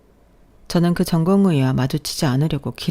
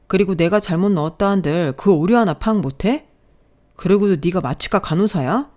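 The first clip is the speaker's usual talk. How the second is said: scornful scolding; 2 semitones higher than usual. Acted. Resident berates nurse in acted quarrel.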